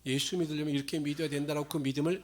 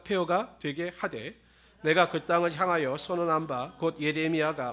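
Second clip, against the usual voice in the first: louder, solemn Bible reading; scripture reading; 4 dB louder than usual. Acted. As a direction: proclaim the verses to the congregation. Reads scripture aloud to congregation.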